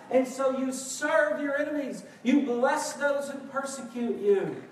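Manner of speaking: emphatic, driving sermon delivery; forceful exhortation. Real, not acted. Preacher urging church to serve spouse and enemies, forceful preaching. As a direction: press each command on the congregation.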